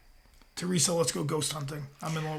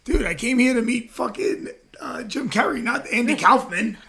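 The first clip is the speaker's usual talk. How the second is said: louder, higher exasperated Dave Chappelle; indignant outburst, voice pitched up; exasperated retort; 5 semitones higher, 5 dB louder than usual. Retold or imitated. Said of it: "He's like".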